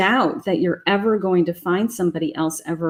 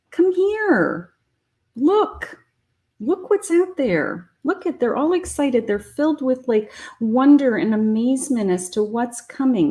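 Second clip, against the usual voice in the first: put-on excited children. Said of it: "children are like".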